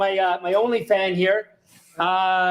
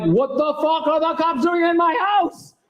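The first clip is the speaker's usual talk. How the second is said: shocked disbelief; 8 semitones higher than usual. Retold or imitated. Retelling finding cops in his house.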